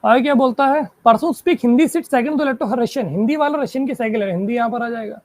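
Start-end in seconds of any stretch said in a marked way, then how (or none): 1.0-3.1 slow, measured clue reading. Shown as a demonstration. Teacher dictating the next clue to the class, slowly. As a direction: read each word out carefully. Reads puzzle clue aloud.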